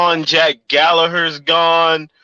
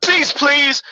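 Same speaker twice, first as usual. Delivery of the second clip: higher, smug demand; mock Devlin demand; 9 semitones higher, slower than usual. Friends retelling Devlin's reply, smug higher mock voice. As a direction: ask for receipts like he's already won. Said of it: "Jordan Devlin was like".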